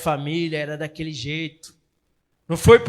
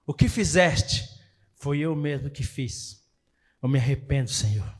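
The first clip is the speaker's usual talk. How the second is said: David's repentance; 5 semitones lower, 5 dB quieter than usual. Acted. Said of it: "a partir do momento que ele compreende".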